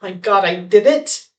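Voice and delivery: lightly acted giddy elation. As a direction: exclaim it like a giddy little win. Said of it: "a giddy, like".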